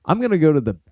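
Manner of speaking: sloppy imitation of a Boston accent with dropped r's; mock Boston accent. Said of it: "the same thing as a Boston accent".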